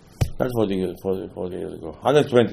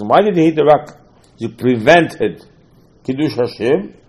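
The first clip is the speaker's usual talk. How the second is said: upset rebuke; 3 semitones higher, 4 dB louder than usual. Retold or imitated. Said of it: "Hashem is very upset at Moshe".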